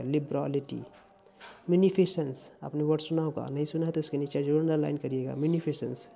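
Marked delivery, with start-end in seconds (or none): 0.0-0.8 लिबरलिटी with an open, long "raa"; correct pronunciation. Shown as a demonstration. Teacher asking students to pronounce लिबरलिटी properly, correct pronunciation. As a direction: say लिबरलिटी as "lib-raa-li-tee". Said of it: "सही से pronunciate करिएगा".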